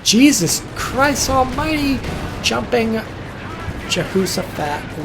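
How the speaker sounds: high, loud, slow cry of shock; astonished exclamation. Real, not acted. Caster reacting to a sudden play, astonished high loud cry. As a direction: blurt it out, stunned by the play.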